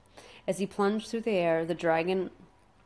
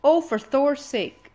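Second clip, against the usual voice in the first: loud, high, slow exasperated outburst; fed up and snapping at him; exasperated snap; 8 semitones higher, 10 dB louder, slower than usual. A narrator's reading. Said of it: "snapped Hiccup".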